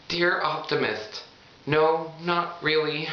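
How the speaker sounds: high, slow cheerful shrug; still gushing. Acted. Thrilled reader answering, giddy and slow. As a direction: stay giddy while shrugging it off. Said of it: "I'm just so excited".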